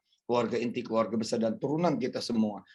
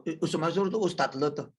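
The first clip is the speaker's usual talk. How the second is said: gossiping neighbour; 4 semitones higher than usual. Retold or imitated. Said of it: "ke kalian semua kan gini kan".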